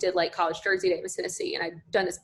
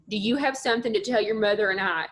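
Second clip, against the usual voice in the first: put-on thick North Mississippi accent. Dad needing a word, thick Mississippi accent. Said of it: "has a super thick accent".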